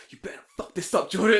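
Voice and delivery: high, loud mock-threatening dad; mock fatherly warning, rising to a yell; imitating stern fathers. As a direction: bellow like an overbearing father. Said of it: "acting like, like how, I guess how their fathers would act".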